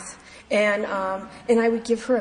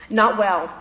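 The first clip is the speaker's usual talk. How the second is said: laughing; 5 dB louder than usual. Real, not acted.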